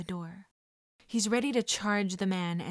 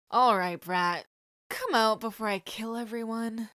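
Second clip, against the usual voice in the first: loud menacing bark at the start; threatening shout; 4 dB louder than usual. Acted. Kidnapper yelling at the hiding boy, menacing. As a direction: threaten the hidden kid.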